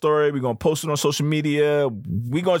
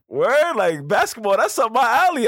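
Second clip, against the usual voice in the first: excited; 9 semitones higher than usual. Retold or imitated. Telling his manager he's ready to play, thrilled. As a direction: jump at the chance like it's your sport. Eager reply to the game invite.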